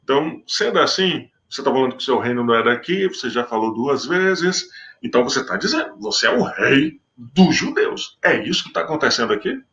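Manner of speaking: lightly voiced Pilate pressing Jesus, a touch incredulous; Pilate paraphrased. Pilate pressing Jesus about being king, lightly incredulous. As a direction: corner him with the question. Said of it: "aqui entra realmente a pergunta".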